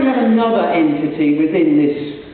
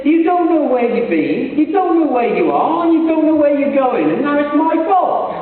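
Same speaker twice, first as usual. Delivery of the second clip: higher-pitched, rising exasperation, lightly acted; mock indignant retort; 5 semitones higher than usual. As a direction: play the balloonist's comeback as a hammed-up complaint. Punchline of a balloon joke.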